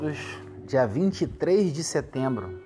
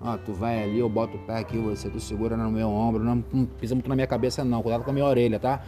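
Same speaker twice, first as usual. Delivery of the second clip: friend voice; 5 semitones lower, faster than usual. Pretend. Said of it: "estou parafraseando".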